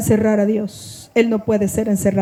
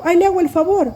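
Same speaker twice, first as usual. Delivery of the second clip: imitated condescending promise; 5 semitones higher than usual. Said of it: "me dicen algo otro".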